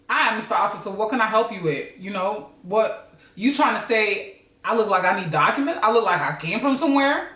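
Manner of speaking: lightly put-on African American toughness; hardcore. Rehearsing for a police stop, playing mildly hardcore. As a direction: challenge the officer with a hint of hardcore attitude. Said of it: "I gotta sound a bit more hardcore".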